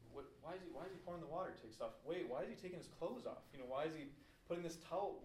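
mildly acted bewilderment, pitch lifting on each question; baffled. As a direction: wonder aloud like a confused onlooker. Voicing the baffled disciples watching Jesus.

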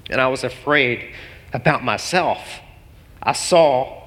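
really holding back emotion, halting; choked up. Real, not acted. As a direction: quote it haltingly while fighting back tears. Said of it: "I'm getting so emotional".

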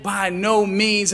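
slow, emphatic denial; deliberate weight on "by no means". Acted. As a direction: stretch "by no means" out firmly. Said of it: "with an emphatic".

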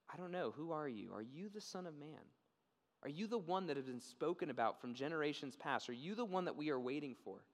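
softly acted, tentative questions; quiet acted awe; hushed wondering. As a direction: ask quietly, as if daring to hope. Blind man's humble question to Jesus.

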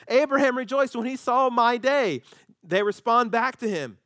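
high, loud, slow disbelief; incredulous mockery. Angry crowd mocking Jesus, high and incredulous. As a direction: scoff at the claim.

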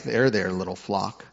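pat the flock on the head with your voice; mock condescending. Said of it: "this isn't like some condescending".

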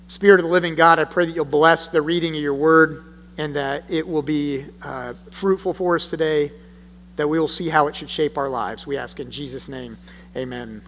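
quiet, low prayer fading to amen; hushed closing prayer before the sermon. Real, not acted. Prays after the reading.

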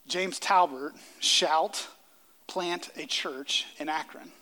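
slow, measured mock Bible verse; mock scripture reading. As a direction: lightly intone it like a scriptural command, slowly. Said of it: "find in Scripture anywhere where it says".

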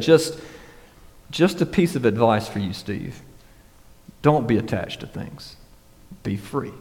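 lightly imitated Russian accent, low and quiet; a mild Russian accent, trailing down softly. Russian billionaire advising his interviewer, in a lightly imitated Russian accent. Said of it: "in this thick Russian accent".

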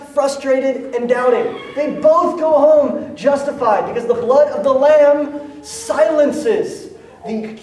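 high, loud, driving proclamation; preaching at full force. Real, not acted. Pastor to the congregation, preaching loud and high. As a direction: lift it to a ringing climax.

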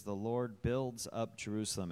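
"builds" picked out with emphasis; stress on "builds". Real, not acted. Church member reading a psalm aloud, stressing "builds". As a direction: lean on the word "builds". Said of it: "emphasis on builds".

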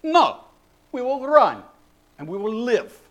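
high-pitched refusal from a Scottish soldier; veteran soldier. Acted. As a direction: refuse loudly, then ease off, in a mock brogue. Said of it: "a veteran soldier says".

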